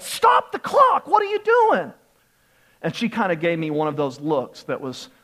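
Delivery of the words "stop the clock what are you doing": high, loud reenacted shout; heated yell. Young player yelling at the clock keeper, heated shout. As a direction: yell out in the heat of the moment. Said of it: "I yelled at her, sort of in the heat of the moment".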